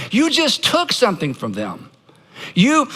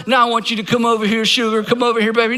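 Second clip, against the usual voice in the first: mock coaxing plea; 2 semitones higher, faster than usual. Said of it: "that's a request for proximity".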